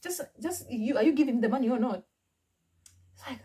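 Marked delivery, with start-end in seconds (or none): 0.0-2.0 higher, fast, impatient; exasperated sass. Retold or imitated. She snaps at Yusuf to hand over money, higher and fast. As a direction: brush off the repeated question. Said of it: "this guy asked me that question".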